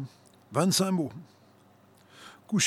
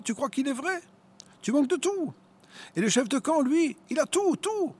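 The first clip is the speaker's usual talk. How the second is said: mocking tempter; 10 semitones higher than usual. A narrator's reading. Devil's taunting continues.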